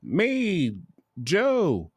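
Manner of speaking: high, quick name drop; inmate saying his name. Retold or imitated. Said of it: "supposed to be like".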